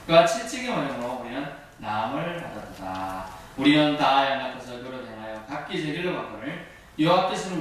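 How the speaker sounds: solemn, measured Bible reading; scripture reading. Acted. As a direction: read it out like a pulpit lesson. Reads Isaiah 53:5 aloud.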